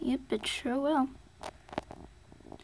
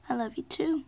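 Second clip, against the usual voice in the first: whispered. Pretend. Sally whispering goodbye to Stickers, hushed. Toy car couple says goodbye.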